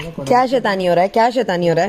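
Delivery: teasingly ask, as if catching mischief; playful scolding. Pretend. Mother to her baby caught in mischief, playful scolding.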